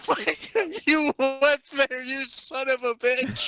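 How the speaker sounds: high, breathless laughing words. Real, not acted. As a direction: gasp it out through laughter. Laughing at shocking joke.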